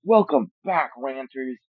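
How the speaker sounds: a mock showman welcome to the ranters; odd intro voice. YouTuber greets ranters in a put-on voice, odd intro voice. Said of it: "I don't know why I'm talking like this".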